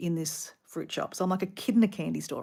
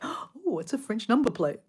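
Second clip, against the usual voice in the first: gasp, then a high "oh" of delight; self-mocking tourist awe; mock wonder; 5 semitones higher than usual. Tourist sidetracked taking photos of France, mock wonder.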